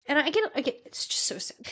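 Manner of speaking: real sadness, voice dropping away on the last words; choked up. Real, not acted. Host overcome by a soldier's story, choked up. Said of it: "It just chokes me up".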